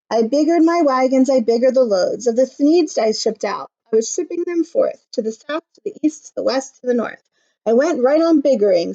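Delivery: storyteller's proud factory owner; boastful businessman recounting; Once-ler voice. Acted. Once-ler telling his story.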